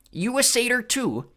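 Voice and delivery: slow, high monster voice; slow Cyclops question. Acted. Polyphemus eyeing Clarice, slow monster voice. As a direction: ask like a dim giant.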